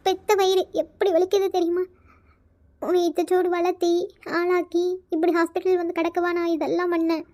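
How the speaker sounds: understated tearful pleading, broken by pauses; tearful reproach. Acted. Mother to injured son in hospital, tearful reproach. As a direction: reproach with a touch of tears. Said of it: "இப்ப எதுக்குமா அழுகுறீங்க?".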